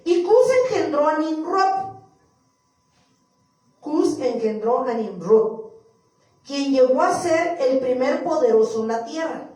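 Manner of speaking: loud, measured Bible reading; scripture reading. Acted. Preacher reading Genesis to the church, declamatory scripture reading. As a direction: proclaim the verse to the room.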